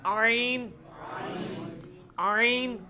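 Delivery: آئین drawn out from the middle of the throat; sustained throaty ع opening آئین; ain from mid-throat. Shown as a demonstration. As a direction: model آئین slowly for students, squeezed from mid-throat. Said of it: "ادھر ہی سے یہ آئین بھی نکلنا ہے".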